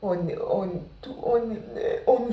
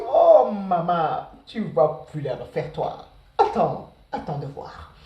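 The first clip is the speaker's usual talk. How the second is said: long drawn-out opening, then lower threat; mock inner warning; 3 semitones lower, 5 dB louder than usual. Student silently vows payback to the classmate, mock warning tone. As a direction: stretch the first words loudly, then drop low.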